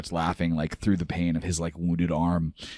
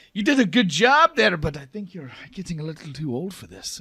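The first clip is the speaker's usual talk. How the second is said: teasing daughter; 12 semitones higher, 6 dB louder than usual. Acted. Daughter teases her father.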